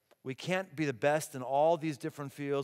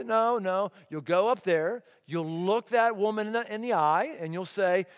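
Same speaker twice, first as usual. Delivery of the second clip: firm, louder parental orders; 4 semitones higher, 5 dB louder than usual. Retold or imitated. Father sending his shy daughter for menus, firm. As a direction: lay down the rule to a child.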